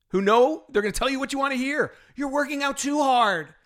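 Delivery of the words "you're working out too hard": mocking quote. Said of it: "this person said".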